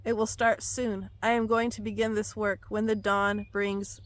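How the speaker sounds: solemn prophetic reading; prophetic proclamation. Acted. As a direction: proclaim it like a prophecy read aloud. Reads God's words aloud.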